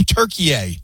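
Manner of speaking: TURKEY A as "Turkey-AY", extra final syllable; added final A. Shown as a demonstration. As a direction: end "Turkey A" on a sounded "ay". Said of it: "what country added an A?".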